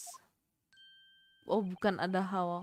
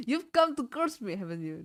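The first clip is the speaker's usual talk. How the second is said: laughing accusation; 4 semitones higher than usual. Acted. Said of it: "reading paranoid client line".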